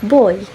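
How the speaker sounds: put-on "boy" set apart with a clear oy glide; model pronunciation. Shown as a demonstration. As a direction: pronounce "boy" alone as a teacher's example. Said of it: "is pronounced".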